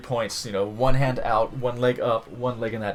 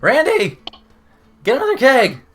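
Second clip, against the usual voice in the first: high, loud holler across the room; party shout; 14 semitones higher, 13 dB louder than usual. Acted. Partygoer yells to Randy for another keg, rowdy shout. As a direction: call out like a rowdy frat boy.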